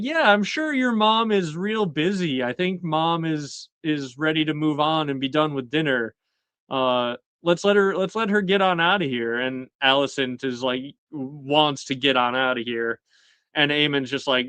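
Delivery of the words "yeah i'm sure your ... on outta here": higher-pitched, lightly acted brush-off; mock polite dismissal. Girlfriend hinting that mom should leave dinner, mock polite dismissal. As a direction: imitate politely nudging someone out.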